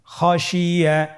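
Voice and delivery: slow, joined "খশিয়া"; whole-word reading. Shown as a demonstration. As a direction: say "খশিয়া" as one stretched word. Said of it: "বানান ছাড়া". (টেনে মিলিয়ে "খশিয়া")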